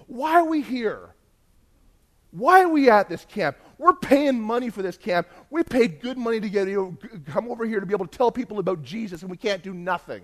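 high, loud mock protest; complaining kids. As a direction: imitate indignant kids whining about being there. Retold stressed kids protesting.

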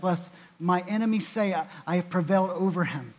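psalm read aloud with rising fervor; scripture reading. Acted. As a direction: read the psalm as a heartfelt plea.

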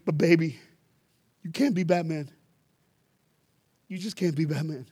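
a mom tells her son they can't afford it; apologetic mom. Retold or imitated. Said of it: "She goes".

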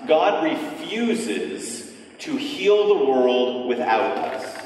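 very slow, with long pauses; deliberate, spaced-out key statement; slow, weighty. Real, not acted. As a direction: draw out REFUSES, pause, then settle on "without us". Key line delivered for emphasis.

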